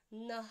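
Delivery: nah ending in an audible puff of breath; expulsion of air. Shown as a demonstration. Teaching visarga before P, nah with breath expelled. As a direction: push the air out after nah. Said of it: "make an expulsion of air".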